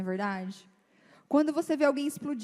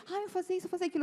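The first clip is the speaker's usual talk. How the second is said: excited husband; 7 semitones higher, much faster than usual. Retold or imitated. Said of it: "Ele chega".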